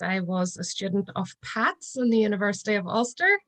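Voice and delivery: ordinary delivery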